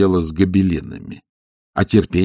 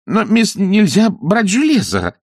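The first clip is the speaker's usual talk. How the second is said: alarmed warning; 13 semitones higher, 6 dB louder, slower than usual. Acted.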